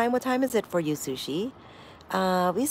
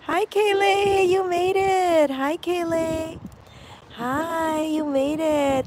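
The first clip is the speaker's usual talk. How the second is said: excited greeting; 7 semitones higher, slower than usual. Real, not acted. Greeting a viewer who arrived.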